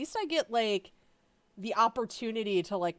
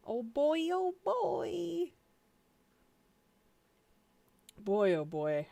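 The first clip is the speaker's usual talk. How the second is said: mock dread voice; 7 semitones higher, much slower than usual. Real, not acted. Bracing for the drama, mock dread. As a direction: put on a goofy worried voice.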